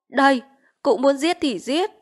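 high, despairing dare; desperate defiance. Acted. Vít daring the chief to kill her, desperate. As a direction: throw yourself at his mercy.

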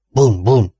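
two booming imitated gunshots; gunshot imitation. A narrator's reading. Narrator voices two shots in the night, booming.

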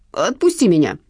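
understated desperate plea; pleading. A narrator's reading. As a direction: beg to be let go. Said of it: "взмолился карманник".

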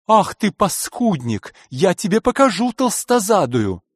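медленно и выше, с негодованием; не стерпела — и грозит ему; в ярости. Acted. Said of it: "стерпеть уж никак не могла". (директриса грозит грабителю, медленно и с яростью)

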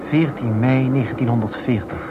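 ordinary delivery

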